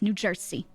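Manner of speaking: "New Jersey." with the S sound in place of the Z; "New Jersey." said "New Jer-see"; Jersey local way. Shown as a demonstration. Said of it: "Like that".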